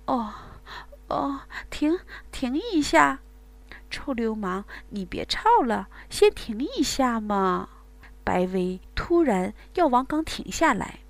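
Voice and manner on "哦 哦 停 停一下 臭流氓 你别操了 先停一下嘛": coaxing, breathless plea to pause; breathy pleading woman. Acted. Woman coaxing her lover to pause, breathless. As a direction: ask him to stop, still moaning.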